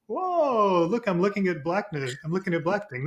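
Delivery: mock wonder, starting on a high drawn whoa; lightly acted amazement; dawning realization. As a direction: act out a sudden discovery, easing down from high. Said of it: "you start to go like this".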